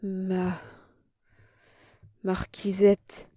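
halting, slow breathy stammer; barely voiced, faltering words. A narrator's reading. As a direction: stumble over it in shock. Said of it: "balbutia mon oncle".

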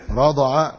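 "رضع" said rada'a, short a after the ض; fatha on ض. Shown as a demonstration. Teacher showing the Najdi past tense, "رضع" with fatha on ض. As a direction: voice "رضع" with an a in the middle. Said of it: "بفتح الضاد في الماضي".

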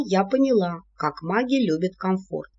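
usual speaking voice

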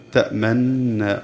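تأمن with the doubled nun and the lips rounded, very slow; ishmam. Shown as a demonstration. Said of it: "ونضم الشفتين".

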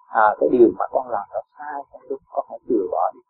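gentle advice. Shown as a demonstration. Teacher shows how to gently scold a misbehaving child, softly. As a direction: kindly tell the child to drop the fault. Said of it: "Con nói nhẹ nhàng".

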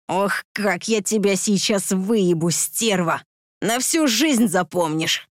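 slow, leering menace; lecherous growl. Acted. Drunk attacker leering over his victim, slow lecherous growl. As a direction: drag it out like a predatory drunk. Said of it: "Возбуждённо прорычал мудак".

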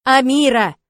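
loud, urgent call of her name; shouting her name. Acted. Ryan shouting to wake the fainting girl, urgent loud call. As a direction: yell the name to snap her back.

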